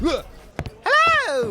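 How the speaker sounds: bursts in with a high, loud hello; a sudden high yelp of a greeting; loud, high startled greeting. Acted.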